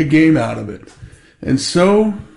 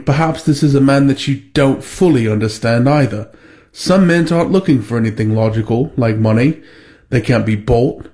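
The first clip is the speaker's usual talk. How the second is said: a modest Cockney butler impression close to his own voice; Michael Caine Cockney; 2 semitones lower than usual. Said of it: "you need to do your best to mimic that accent".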